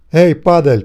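loud snarling call over a megaphone; growled megaphone. A narrator's reading. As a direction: bark it out at the hiding family. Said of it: "прорычал мегафон". (громкий рык через мегафон)

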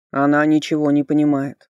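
loud, grumbling skull voice; interrupting skull. A narrator's reading. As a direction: cut in gruffly, dismissively. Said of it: "перебил меня Йорк". (ворчливо перебивающий череп)

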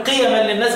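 "قيما" as qiyaman with no long aa; qasr, short vowel. Shown as a demonstration. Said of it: "بالقصر".

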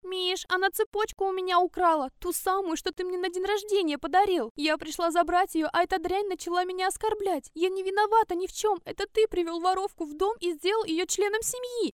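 high, loud whining complaint; wife falsely accuses the girl to her husband, high whine; faked indignation. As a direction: play the wronged wife, pitched high. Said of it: "Она так искренне возмущалась".

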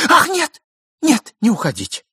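a high, loud cry to stop him; wife crying out to her husband not to leave; cried out. A narrator's reading. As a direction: call out to hold him back. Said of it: "закричала жена".

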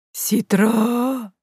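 lowing, high, eerie call; ghostly moan. A narrator's reading. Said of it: "замычала я". (призрачное мычание)

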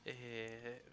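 talking while eating chips; crunching chips. Real, not acted. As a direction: mouth full of chips. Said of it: "estoy comiendo papitas".

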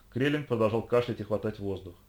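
ordinary delivery

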